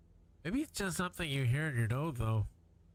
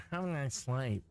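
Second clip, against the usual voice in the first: pinched nasal voice copying the controller. Retold or imitated. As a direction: say it through the nose. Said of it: "Did you hear how nasal she is?".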